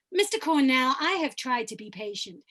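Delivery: mouth-resonant character, opening loud; oral resonance. Shown as a demonstration. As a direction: place the voice forward in the mouth. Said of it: "come up to my oral resonant place".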